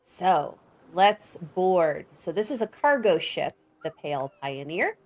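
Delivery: game master's descriptive narration; measured storyteller's delivery; scene setting. A narrator's reading. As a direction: paint the scene, stressing the vivid words.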